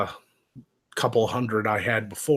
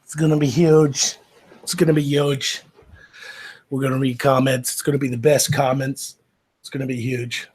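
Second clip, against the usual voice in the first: Trump impression; 3 dB louder than usual. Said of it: "It's a terrible Trump impression".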